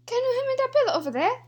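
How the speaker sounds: high, quick mock Asian accent. Player reluctantly attempting the pillow line, high mock Asian accent. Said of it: "Who's Asian?".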